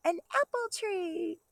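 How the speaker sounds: light up at the answer; excited. Real, not acted. Teacher delighting kindergartners with the answer, excited.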